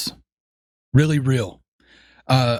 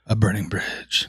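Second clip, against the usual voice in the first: poetry reading; 2 semitones lower than usual. Pretend. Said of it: "Read us off some haikus real quick".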